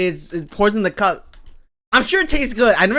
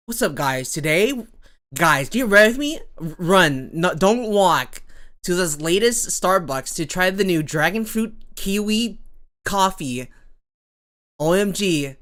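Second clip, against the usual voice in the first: put-on TikTok accent. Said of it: "that's like the TikTok accent".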